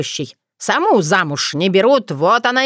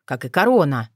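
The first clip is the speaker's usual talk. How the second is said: usual speaking voice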